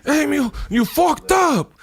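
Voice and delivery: put-on high, slow Hispanic-accent scold. Friend imitating the comic's Hispanic dad voice, high and slow. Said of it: "that Hispanic voice".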